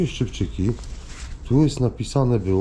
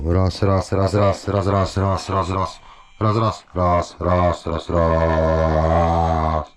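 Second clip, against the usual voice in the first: loud mic test through a microphone; mic check; 3 semitones lower, 3 dB louder, much slower than usual. Real, not acted. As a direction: count into the mic for a sound check. Testuje znaleziony mikrofon. (próba mikrofonu przez mikrofon)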